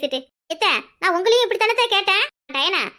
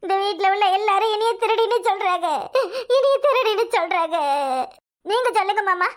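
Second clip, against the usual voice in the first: fake crying. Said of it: "நமக்கு நடிக்க தெரியலையே".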